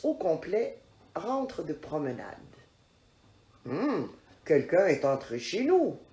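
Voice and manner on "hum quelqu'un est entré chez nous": a hint of a gruff father bear; understated gruff bear voice; papa bear's big voice. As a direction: lightly growl it like a big bear. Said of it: "gronde papa ours d'une grosse voix".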